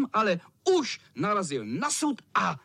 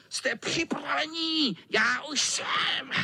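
high gloating villain cat, claws slowly stretched out; menacing cat; 11 semitones higher, slower than usual. A narrator's reading. Cat threatens the boys with his claws. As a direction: savour each threat.

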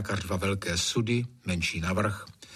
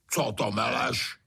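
mild bark. Acted. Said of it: "vyštěkl Trautenberg".

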